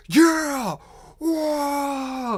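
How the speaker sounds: high, loud roaring cheer of orcs; orc crowd cheer. Acted. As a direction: bellow it like a cheering orc mob.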